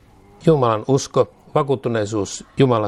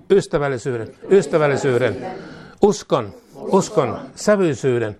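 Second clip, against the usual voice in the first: prayer declaration; 2 semitones higher than usual. Acted. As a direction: lead a fervent spoken prayer, line by line. Leads a spoken prayer declaration. (johdettu rukousjulistus, lause kerrallaan)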